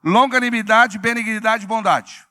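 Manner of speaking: loud unison reading; loud call-out. Shown as a demonstration. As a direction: call the words out to the room. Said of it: "Fala bem alto".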